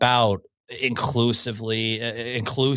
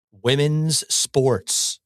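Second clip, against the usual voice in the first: slow, stress on "Women"; slow emphasis; much slower than usual. Real, not acted. Host driving home his point, slow and stressed. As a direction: lean on "Women" and draw it out. Host repeating slogan slowly.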